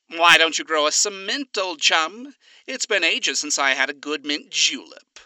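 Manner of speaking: a hint of a genial old-fashioned gentleman; lightly voiced suave Alistair. Alistair greeting Husk in the garden, lightly genial.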